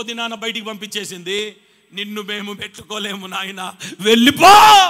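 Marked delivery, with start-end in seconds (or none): 1.9-4.8 grave speaking. Acted. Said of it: "సమాధి కూడా ఆయనను ఉంచుకోవడానికి భయపడిందండి".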